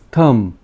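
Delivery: थंब ending on m, no b sound; silent b. Shown as a demonstration. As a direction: drop the final b in थंब. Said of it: "pronunciation होता है थंब". (थंब, आख़िरी बी बिना)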